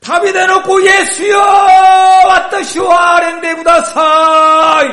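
shouting high and loud, pleading; desperate cry. A narrator's reading. Blind beggar crying out to Jesus over the crowd, desperate shout. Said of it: "激しく叫び続けました".

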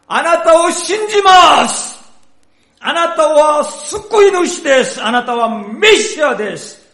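high, loud fervent declaration; fervent cry. Acted. Beggar proclaiming faith in Jesus, fervent loud cry.

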